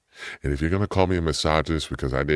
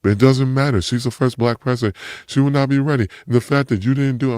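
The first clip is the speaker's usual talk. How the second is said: much higher, louder, heated rant; angry outburst; 10 semitones higher, 5 dB louder, faster than usual. Real, not acted. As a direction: let the anger boil over. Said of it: "made me angry".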